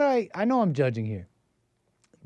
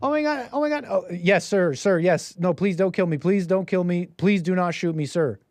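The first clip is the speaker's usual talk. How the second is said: mock panicked pleading; 3 semitones higher than usual. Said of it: "they're gonna be like".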